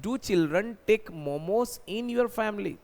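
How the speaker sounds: slow, word by word model sentence; slow dictation. Shown as a demonstration. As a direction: give the class time to follow. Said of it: "क्या आपकी family में सर बच्चे मोमोज खाते हैं?". (धीरे-धीरे बोला गया उदाहरण)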